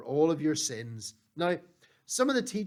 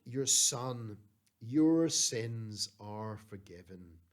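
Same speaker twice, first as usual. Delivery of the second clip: low, slow, gentle pronouncement; a tender, measured reassurance, pitched low; gentle forgiveness; 6 semitones lower, much slower than usual. Acted. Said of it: "What a beautiful thing for that man to hear".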